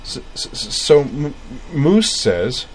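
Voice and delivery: stuttering start. A narrator's reading. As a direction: stammer on the s. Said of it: "her stutter".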